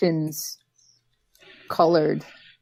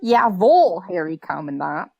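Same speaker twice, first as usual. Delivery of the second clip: mock Minnesotan accent. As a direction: playfully imitate a Minnesotan saying German. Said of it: "You just sounded so Minnesotan".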